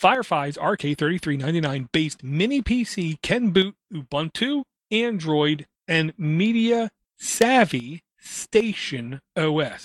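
slow, careful, deliberate read-through. Reading out a mini pc's full product name, at a slow, careful pace. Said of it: "I had to say that slow".

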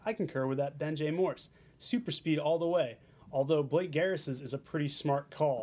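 ordinary talk, nothing marked

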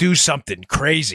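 heavily ironic, sarcastic tone. Explaining why a court case fell apart: sarcastic. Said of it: "I'm being sarcastic there".

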